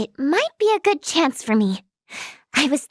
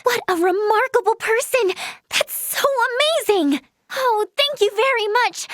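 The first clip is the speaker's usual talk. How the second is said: bubbling, higher-pitched delight; thrilled admiration; 4 semitones higher than usual. Acted. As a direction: gush with gratitude. Thrilled by inspiring news.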